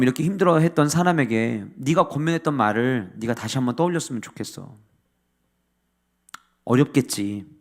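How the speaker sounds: gentle counsel. Acted. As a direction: coax a hurting friend softly. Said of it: "이렇게 얘기하고 끝났으면 괜찮아요".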